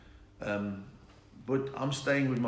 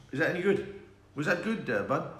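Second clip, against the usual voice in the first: usual speaking voice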